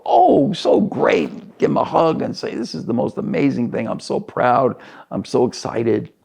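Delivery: high gushing start, easing down toward normal; mock gushing proud parent, starting way up high; hammed-up delight that settles as it goes; imagined exuberance. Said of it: "without the exuberance".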